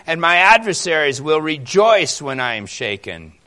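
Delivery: loud, demanding prayer; the psalmist boldly calls on God, loud; bold plea. Acted. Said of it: "I love the boldness here".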